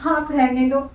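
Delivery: put-on sobbing, voice wobbling; fake crying. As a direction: sob it out to win mother's pity. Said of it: "ये मेरा नाटक है".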